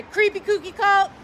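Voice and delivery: a hint of a commanding cop voice; mock authority. Correcting the mock quote.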